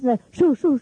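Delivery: quick sharp shoo, shoo; shooing demo. Shown as a demonstration. Demo of shooing cameramen off while in an elegant dress. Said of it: "the video catch me in this kind of".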